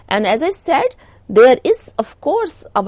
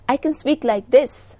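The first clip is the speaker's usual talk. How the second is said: higher volume; 2 semitones higher than usual. Shown as a demonstration. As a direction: lift the volume to show a stronger tone. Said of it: "My tone is higher".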